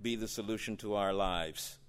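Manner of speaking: quiet earnest sermon voice; sudden hush. Real, not acted. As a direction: drop to an intimate hush. Preacher drops after climax.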